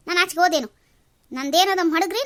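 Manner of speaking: angry son talking back; defiant loud question. Acted. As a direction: throw the question back in his face. Son defies father in quarrel.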